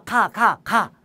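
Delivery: ordinary delivery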